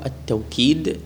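"التوكيد" said at-tawkid, with a w glide; pronounced with waw. Shown as a demonstration. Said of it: "بالواو".

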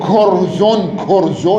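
"كرز" ending in -un, kurzun; nominative ending -un. Shown as a demonstration. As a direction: sound the tanween on "كرز" as -un. Case endings shown in grammar example.

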